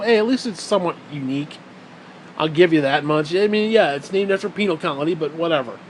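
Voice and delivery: sarcastically granting a small point; sarcastic. Real, not acted. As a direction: concede it with heavy sarcasm. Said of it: "I'm being sarcastic, obviously".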